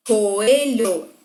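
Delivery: COELHO drawn out beat by beat, "co - e - lho"; dividido em sílabas. Shown as a demonstration. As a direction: say Coelho syllable by syllable. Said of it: "uma palavra é maior que a outra". (Coelho separado em sílabas, co-e-lho)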